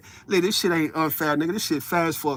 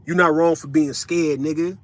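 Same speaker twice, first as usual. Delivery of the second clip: motivational speaker. Acted. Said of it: "talking like I'm a motivational speaker".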